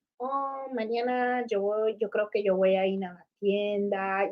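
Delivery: drawn-out, unhurried, very slow, soft, calm Spanish. Contrasting Puerto Ricans' quick talk with others', the speaker imitates slow speech. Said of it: "they say real slow".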